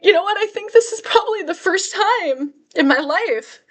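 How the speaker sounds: high, choked-up voice through tears; crying. Real, not acted. Vlogger remembering her first peace, tearful. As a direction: push the words out past the tears. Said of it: "I'm gonna start crying right now".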